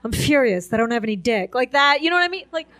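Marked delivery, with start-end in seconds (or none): 0.0-1.5 low mock-furious voice; mock fury. Comic mimicking the angry squint look, mock fury. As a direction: play furious in a low pitch. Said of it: "look a little angry".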